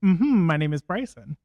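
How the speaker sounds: a repeat of the hum exercise; natural speaking pitch. Shown as a demonstration. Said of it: "That's right where you speak".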